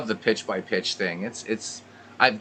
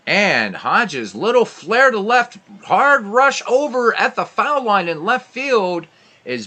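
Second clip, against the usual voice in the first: much higher and louder, building call; big excited call; 12 semitones higher, 9 dB louder than usual. Acted. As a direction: ramp up as the ball drops in. Hard-hit ball called live.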